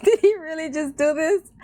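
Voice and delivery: recreate the delighted shock of finding it; can't believe he did it; amazed disbelief. Retold or imitated. Retelling her reaction to the song.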